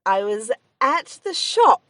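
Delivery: put-on slow, drawn-out Mayo accent. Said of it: "This is my Mayo accent".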